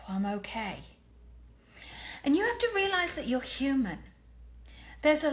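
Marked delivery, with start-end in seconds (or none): 0.1-0.8 sigh of relief. Shown as a demonstration. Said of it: "have that moment and just go".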